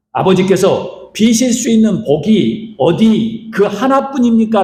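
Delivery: plead, climbing toward the end. Retold or imitated. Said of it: "라고 애원을 합니다".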